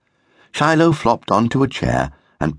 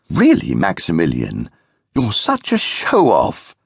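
laughing. Acted. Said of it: "laughed their mother".

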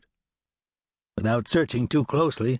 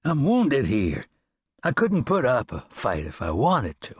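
feigned weak voice; 3 semitones higher than usual. Acted. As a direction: sound too hurt to fight. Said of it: "adding a weakened sound to his voice".

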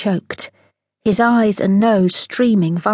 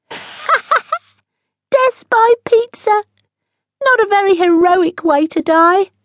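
very high, slow, teasing laugh-talk; mocking giggle; 13 semitones higher, 5 dB louder, slower than usual. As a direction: tease the captain through laughter.

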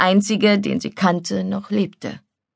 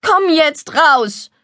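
high, drawn-out plea; slow, urgent entreaty, pitched high; pleading; 8 semitones higher, 4 dB louder, much slower than usual. Acted. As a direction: beg him to come out. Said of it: "Die Stimme des Mädchens klang auf einmal flehentlich".

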